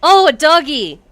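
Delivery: high, loud cooing at a dog; excited squeal. Real, not acted. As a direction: gush over a cute puppy. Streamer spots a dog in game.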